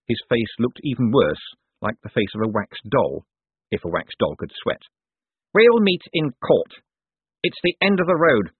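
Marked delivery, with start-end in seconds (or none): 5.5-8.5 menacing villain. A narrator's reading. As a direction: draw the threat out, pitched high. Cosmo threatens Moist.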